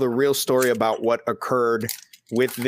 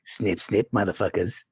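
lower, softer mock Aussie growl; a clumsy Australian impression of a friend; bad Australian accent; 6 semitones lower, 4 dB quieter than usual. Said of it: "That was a horrible impression".

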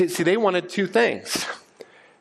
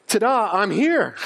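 playful ta-da; 5 semitones higher than usual. Retold or imitated. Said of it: "He says".

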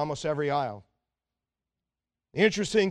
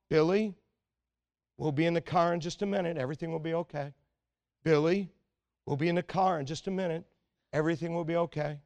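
lightly imitated calm dad, softening as he goes; calm reassurance; 3 dB quieter, faster than usual. Dad soothing Billy in the checkout line, mildly calm. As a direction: retell a father's quick, soft reassurances. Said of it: "saying just calmly".

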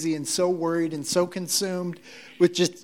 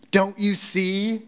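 higher, drawn-out reproach with a rising end; mock exasperation, stretched out slowly; snarky; 5 semitones higher, slower than usual. Martha chiding God incarnate, in a snarky way. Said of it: "in a snarky way".

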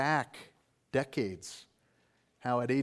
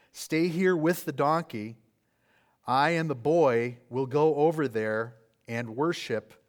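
raised, slow, commanding voice; firm command; 3 semitones higher, 6 dB louder than usual. Acted. Abraham ordering his servants to wait: firm, slow command. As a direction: speak it out firmly and slowly, as a patriarch giving orders.

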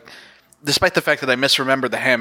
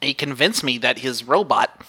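nasal nerdy voice, trailing off; stereotypical nerd voice. Retold or imitated. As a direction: play the awkward nerd. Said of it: "the most stereotypical nerd voice".

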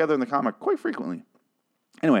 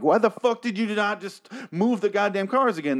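much higher, incredulous rant; exasperated; 10 semitones higher than usual. Retold or imitated. Viewer yelling at the characters, high exasperated disbelief. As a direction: throw your hands up at it. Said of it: "And I'm like".

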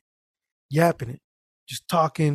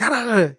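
higher mock-yelled gibberish; imitated yelling; 6 semitones higher, faster than usual. Other Arab man yelling at someone, mildly mimicked yell. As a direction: imitate someone scolding without real words. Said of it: "yelling at".

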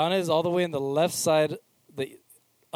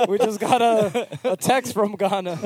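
put-on Ghana accent; 8 semitones higher, 8 dB louder than usual. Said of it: "don't do a Ghana accent".

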